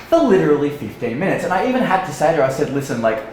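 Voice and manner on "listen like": breaking into laughter. Retold or imitated. Laughs while retelling his plea.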